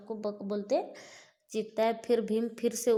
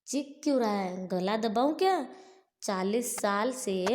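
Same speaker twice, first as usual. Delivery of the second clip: taunting growl; 4 dB louder than usual. Acted. Bhima taunts choking demon.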